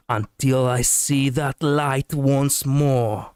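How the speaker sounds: slow, warmer line read; gentle hero line. Pretend. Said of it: "Let me try to be a little bit more warm".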